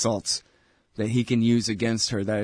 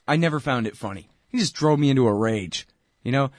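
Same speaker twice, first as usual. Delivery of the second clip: ordinary delivery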